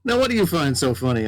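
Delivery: lightly voiced cowboy calling out a little lady; mild mock cowboy, amused. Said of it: "very much cowboy sounding".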